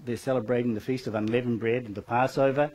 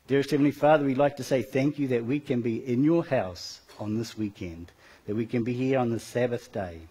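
congregational prayer. Real, not acted. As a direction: pray for the whole church, unhurried.

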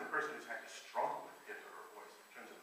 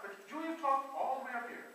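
much higher and louder, imitating Julia Child; 11 semitones higher, 14 dB louder than usual. Teacher imitates Julia Child for choir singers, much higher and louder. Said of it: "what made Julia Child sound so funny".

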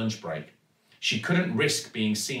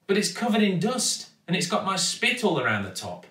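put-on higher, faster girl's protest; protesting Zoe; 8 semitones higher than usual. A narrator's reading. Zoe objects to reusing the spit bottle, appalled.

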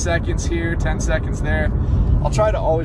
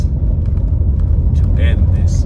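slow, drawn-out mock British voice; 5 semitones lower, 4 dB louder, much slower than usual. Vlogger ending the drive in a joking British accent. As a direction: play a stiff English butler.

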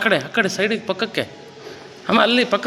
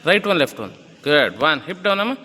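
fitness coach counting. Acted. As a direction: call the reps and push her to keep her hips down. Coach counts plank reps.

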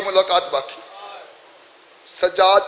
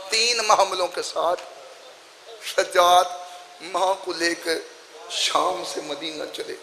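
hushed slow lament; 7 dB quieter than usual. Acted. Repeated slower and softer.

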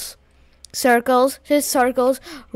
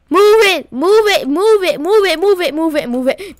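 shouting, fading; 6 semitones higher, 5 dB louder than usual. Real, not acted. Urging on, fading out.

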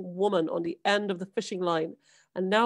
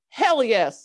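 emphatic yes; 3 semitones higher, 7 dB louder than usual. A narrator's reading. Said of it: "said the father".

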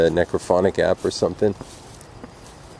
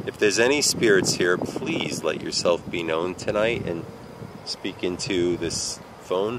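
slow, solemn call to the spirits. Acted. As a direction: address the spirits slowly. Calls to spirits.

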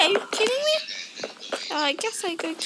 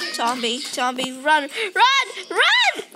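慌张喊跑; 4 semitones lower, 3 dB louder, slower than usual. Real, not acted. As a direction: start low, then escalate into an urgent shout. Fleeing a zombie in game.

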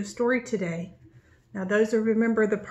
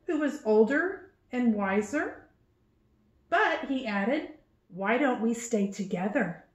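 put-on reading to children. A narrator's reading. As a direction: read it aloud to little ones, unhurried. Reading the book aloud.

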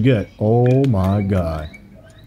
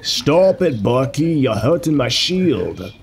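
hammed-up British accent, drawn out; singsong fake British hero; Captain America; 4 semitones higher, slower than usual. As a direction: stretch it out in a mock British accent. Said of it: "Why did he turn British?".

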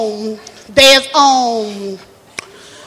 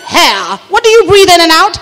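Lady Catherine; 3 semitones higher than usual. Acted. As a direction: teach it like a grand manor hostess. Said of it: "She said".

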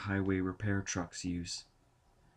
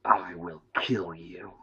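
slow, cold entity voice; slow menacing machine voice; alien threat; 2 semitones lower, slower than usual. A narrator's reading. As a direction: deliver the threat without emotion. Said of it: "The screen flashed".

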